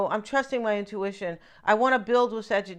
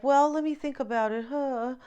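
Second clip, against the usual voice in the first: higher-pitched, mildly haughty pondering; nose in the air; 4 semitones higher than usual. Acted. Card figure answering a pleading suitor, mildly haughty. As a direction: play it a little hoity-toity. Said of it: "she has her nose up".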